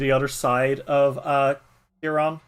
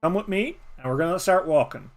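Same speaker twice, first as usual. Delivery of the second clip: louder, bossy badger voice; gruff old badger; 4 dB louder than usual. Badger Nullig ordering the child around, bossy and loud. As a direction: lay down the plan like a grumpy badger.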